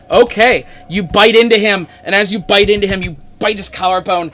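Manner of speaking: loud, dramatic combat narration; game master scene setting. Acted. Game master describes druid biting him, loud vivid narration.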